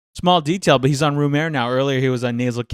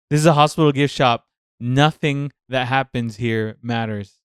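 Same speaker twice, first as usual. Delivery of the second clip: mock angry line; 5 dB louder than usual. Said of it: "Doctor Ron's so mad".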